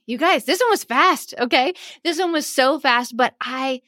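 real, lively excitement; bubbling over with enthusiasm for the topic; excited. Real, not acted. Podcast host wrapping up a fast episode, excited. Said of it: "hope that you can hear it in my voice".

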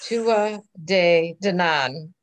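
Tua said slowly, no T sound; careful Irish pronunciation. Shown as a demonstration. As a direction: Tua De Danann, very slow and careful. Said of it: "Did I get that?".

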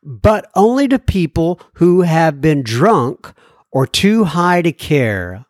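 slow, lilting read-aloud voice; letter read-out. Acted. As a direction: read the listener's letter in measured, singsong phrases. Reads listener's letter.

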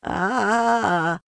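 high frightened cry; a small scared gasp; anxious ah. A narrator's reading. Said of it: "looking round anxiously for the others".

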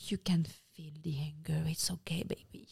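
whispered mock soothing; super calm mom. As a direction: imitate a mother gently hushing an angry child. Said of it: "like, super calm and".

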